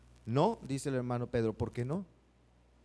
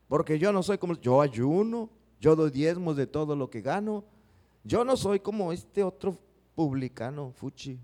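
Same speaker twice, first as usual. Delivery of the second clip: boastful Pharisee. Retold or imitated. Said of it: "Aquel se estaba ufanando, orgulloso".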